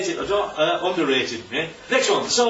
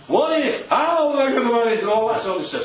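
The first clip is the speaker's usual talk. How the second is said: a hint of an anxious person fretting about the future; mock worrier; 3 semitones higher than usual. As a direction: voice the panicky worrier, mildly hammed-up. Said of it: "So that's life's worries".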